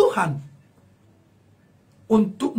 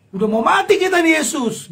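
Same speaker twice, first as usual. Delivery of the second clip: panicked disciples; 5 semitones higher, 4 dB louder than usual. Retold or imitated. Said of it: "gitu kata murid".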